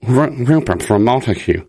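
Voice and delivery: lightly voiced Rupert from Montague; a hint of a stammering listener voice. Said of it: "that's the impression he's going with".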